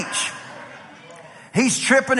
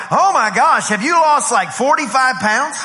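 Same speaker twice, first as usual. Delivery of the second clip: mock-amazed, higher-pitched gushing question; amazed reaction; 5 semitones higher, 3 dB louder than usual. Onlookers gushing over someone's sudden weight loss, mock amazement. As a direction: act out an astonished onlooker.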